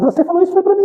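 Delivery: high, mock indignant accusation; accusing young woman. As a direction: voice her shrill complaint. Young woman accusing him angrily.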